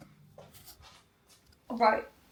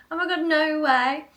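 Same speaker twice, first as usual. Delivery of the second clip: surprised; 5 semitones higher, 6 dB louder than usual. Real, not acted. Reacting to Dan's text.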